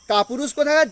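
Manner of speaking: mild mock sneer, falling firmly at the end; taunting scorn. Teacher voicing Lady Macbeth's final taunt, mild contempt. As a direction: spit the insult out, understated. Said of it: "যেমনি কাপুরুষ বললো".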